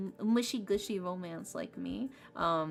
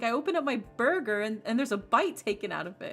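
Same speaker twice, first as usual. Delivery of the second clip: retold complaint, louder and higher at first; mock indignation; 3 semitones higher, 4 dB louder, faster than usual. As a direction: imitate a friend's mild outrage. Retold friend complaining about burger.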